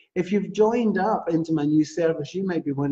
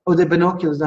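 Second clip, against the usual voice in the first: louder, amused realization of the joke; realizing surprise; 3 semitones higher, 4 dB louder, faster than usual. Real, not acted. Host realizing the co-host's joke, amused surprise. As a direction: catch on with a laugh in the voice.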